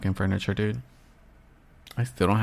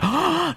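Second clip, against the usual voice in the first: mock gasp. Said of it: "some of you can be like".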